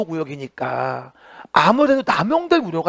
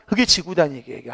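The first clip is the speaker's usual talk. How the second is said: quick recap; 4 semitones lower, 4 dB quieter, faster than usual. Shown as a demonstration. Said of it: "시작".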